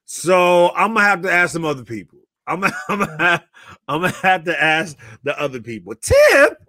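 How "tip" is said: incredulous. Real, not acted. Incredulous at the tipping question.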